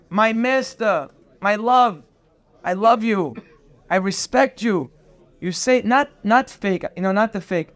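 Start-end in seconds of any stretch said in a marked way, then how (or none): 0.1-4.9 humble respectful address. Shown as a demonstration. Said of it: "put the other guy above you".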